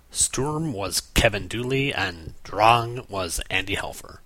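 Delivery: slow, deliberate German accent on the names. Shown as a demonstration. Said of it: "forgive my horrible German accent".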